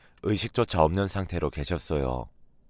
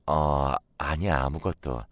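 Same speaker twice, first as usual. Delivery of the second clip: absent-minded; 4 semitones lower, slower than usual. Acted. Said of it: "멍하니 식탁 앞에 앉아서".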